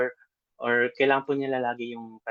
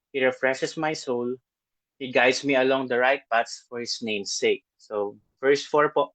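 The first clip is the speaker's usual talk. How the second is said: scripture reading. Acted. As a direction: read the psalm aloud to the congregation, steady and unhurried. Reads Psalm 23 aloud.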